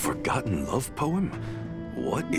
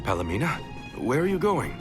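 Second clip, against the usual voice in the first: higher-pitched, concerned question; raised, surprised query; puzzled calling-after; 4 semitones higher, much faster than usual. Acted. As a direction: call after a friend wandering off. Calling after wandering companion.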